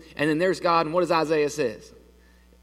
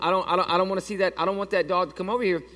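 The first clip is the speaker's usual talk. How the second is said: nervous rushed refusal; 4 semitones higher, faster than usual. Retold or imitated. Scared refusal, rushing.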